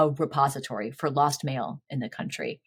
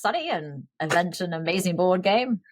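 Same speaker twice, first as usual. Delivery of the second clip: old-time radio announcer, lightly voiced; a hint of a vintage radio pitchman; 1930s radio voice. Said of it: "I got to use my nineteen thirties radio voice on that one".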